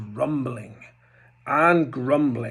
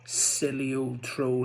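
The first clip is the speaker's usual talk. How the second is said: chuckling; 5 dB quieter than usual. Acted. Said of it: "he chuckled".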